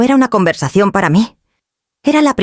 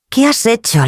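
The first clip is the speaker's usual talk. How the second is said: tense, broken voice; 6 semitones higher than usual. Acted. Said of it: "sonaba tensa, rota".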